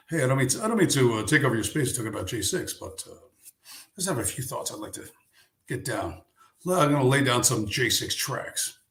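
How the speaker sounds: lightly voiced radio DJ patter, quick in the middle; a hint of a smooth DJ laying down tracks; mock DJ voice, barely shifted; Richard Spencer DJ voice. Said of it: "I'm doing my Richard Spencer D J voice".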